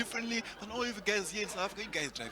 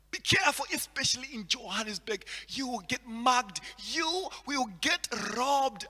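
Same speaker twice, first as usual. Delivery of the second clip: worried friends; 5 semitones higher than usual. Retold or imitated. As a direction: mimic friends fretting over Johannesburg. Friends warning about Johannesburg.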